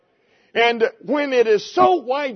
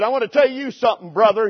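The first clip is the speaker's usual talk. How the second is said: put-on Southwest Missouri country accent; faster than usual. Preacher quoting Brother Ivy to the congregation, Southwest Missouri country accent. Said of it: "he said in his Southwest Missouri country accent".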